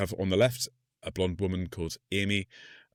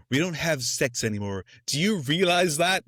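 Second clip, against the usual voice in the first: husband complaining; 6 semitones higher than usual. Retold or imitated. Husband voiced in film recap.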